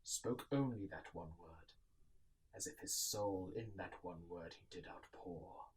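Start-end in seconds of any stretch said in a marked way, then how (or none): 2.5-5.6 unvoiced, hushed whisper. A narrator's reading. Narrator describes the raven's one word, whispering. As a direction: breathe it out.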